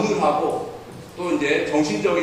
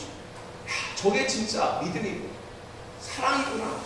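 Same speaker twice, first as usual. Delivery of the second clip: soft, moved murmur; hushed awe; 5 semitones higher, 11 dB quieter than usual. Retold or imitated. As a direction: whisper it as if deeply touched. Audience realising, moved. (감동받아 낮게 속삭이듯)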